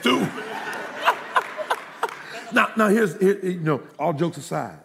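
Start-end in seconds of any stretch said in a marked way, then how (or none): 0.3-2.5 breathless high giggle; high airy laugh. Real, not acted. Pastor cracking up at his own joke, airy laugh.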